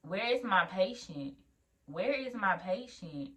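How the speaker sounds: slow, puzzled retold question; slowly searching, bewildered; wondering. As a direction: draw out each word as you wonder. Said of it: "I'm wondering".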